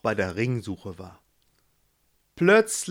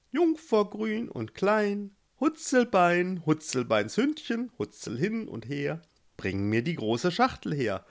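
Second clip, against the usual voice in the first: toad's spell; 6 semitones higher than usual. Acted. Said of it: "Sie sagte ihren Spruch". (die Kröte sagt ihren Spruch langsam, zum Ende leiser)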